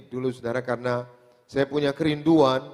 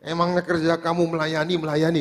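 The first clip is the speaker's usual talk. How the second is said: mild mock scolding, rising at the end; retold scolding; 3 semitones higher than usual. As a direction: imitate a father's cross challenge. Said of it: "Dimarahin, saudara". (menirukan omelan ayah)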